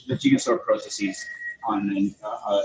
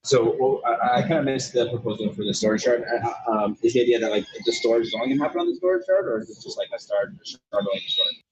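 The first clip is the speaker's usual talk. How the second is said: talking from inside a noisy tunnel; phone call from a tunnel with echo. Real, not acted. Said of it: "I'm, uh, in a tunnel right now, so it's a bit loud".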